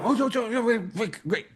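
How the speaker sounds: squealing high with a laugh, oh oh oh; excited realization. Retold or imitated. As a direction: break into a giddy high laugh as the idea hits. Sudden idea in time-machine story.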